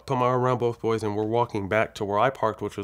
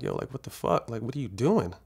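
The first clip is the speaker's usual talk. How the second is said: exasperated, pitch lifting; mildly indignant replay of a protest; retold incredulous protest; 2 semitones higher than usual. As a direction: demand an explanation in disbelief. Retold protest at car moving.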